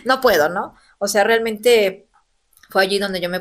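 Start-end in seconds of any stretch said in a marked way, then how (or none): 0.1-0.5 a burst of higher laughter that spills into "no puedo"; laughing. Real, not acted. Recalling the psychologist's dare, laughing it away. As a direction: laugh it off, half embarrassed.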